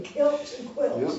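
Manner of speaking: amazed. Real, not acted. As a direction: relish the rhyme, amused and slow. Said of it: "but that was amazing".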